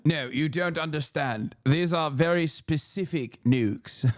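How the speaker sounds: lightly voiced earnest defender of absurd claims; a hint of deadpan pundit; mock expert. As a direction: explain it with mock gravity. Mimics clip's defender, deadpan satire.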